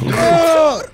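a sharp loud cry of dismay; sudden yell. Real, not acted. Player hit in the game, sudden loud yell. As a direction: yelp as the character gets hit.

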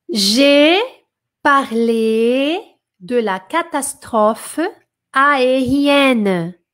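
each French syllable drawn out, "J'ai parlé de la catastrophe aérienne" spelled out slowly; teacher spells out "parlé" and "aérienne" slowly for the class; slow French model. Shown as a demonstration. Teacher models French for students, slow and careful. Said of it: "teacher models French sentence".

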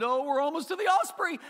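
preacher mocking a family's bedtime Bible reading, in hammed-up glee; mock excitement. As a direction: play a child gushing over a bird list. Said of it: "and get all excited".

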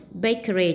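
"Bakery" stressed on BA; stress on first syllable. Shown as a demonstration. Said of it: "nhấn âm một này". ("Bakery" nhấn mạnh âm tiết đầu)

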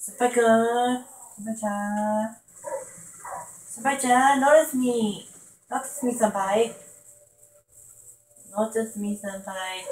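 high squeaky fangirl voice; excited anime fan. Pretend. Anime fan voice begging senpai.

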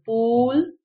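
"पूल" with a long drawn oo. Shown as a demonstration. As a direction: stretch the vowel in pool. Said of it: "अब इसको हम लंबा करेंगे". (पूल में लंबा ऊ)

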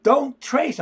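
high-pitched imitation of mother yelling, first word drawn out; retold freaked-out yell. Artist retells mother catching him tracing, freaked-out yell. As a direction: cry it out high, like an alarmed mother. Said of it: "she freaked out".

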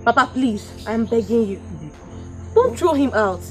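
soft, imploring appeal; soft pleading. Acted. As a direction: beg him gently. Begging father not to evict.

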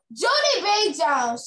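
high, loud call of a name; teacher shouting. Acted. Teacher shouting at a pupil, high and loud. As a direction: bark the name out across the classroom. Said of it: "shouted Miss".

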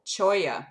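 cholla said as CHOY-ya, the ll like a y; cholla, spoken slowly for a listener to learn; pronounced cholla. Shown as a demonstration. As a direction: say cholla as choy-ya, a clear ch start. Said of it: "pronounced cholla".

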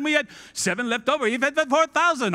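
mock Italian; Italian accent. Disciple working out the bread math, mock Italian accent. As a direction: reel it off in a put-on Italian accent. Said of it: "All of a sudden, I'm Italian".

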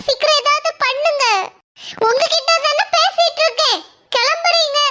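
high, pleading rebuke that climbs as it goes; desperate scolding. Acted. Mother berates hospital staff over her fainted daughter, high and desperate. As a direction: scold them for ignoring her sick child.

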